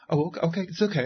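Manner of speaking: high, hurried backing-down voice, imitating a diva caving in; mock placating. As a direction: play the star suddenly caving, "okay, okay". Stars backing down after being yelled at.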